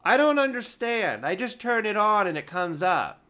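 a lightly voiced clueless caller; confused caller.

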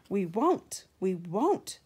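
loud shrill refusal from the trucks; screaming. A narrator's reading. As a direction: scream it back like stubborn trucks. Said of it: "screamed the freight cars".

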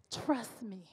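soft, half-whispered quote of God; quiet, breath-led answer from God; hushed divine reassurance. Retold or imitated. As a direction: drop to a near whisper. Repeating God's quiet answer.

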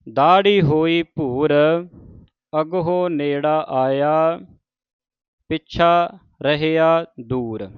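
measured verse reading with deliberate phrase breaks; scripture recitation. Acted. Teacher models Farid's verses for the congregation, measured recitation. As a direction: recite each phrase, then pause.

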